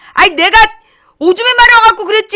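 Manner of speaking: high, loud protesting yell; exasperated shout. Real, not acted. Streamer defending being late to the chat, loud protest.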